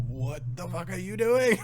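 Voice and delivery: high-pitched mock yell of startled friends; high shocked yell. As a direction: squeal it out like a stunned buddy. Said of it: "they're just like".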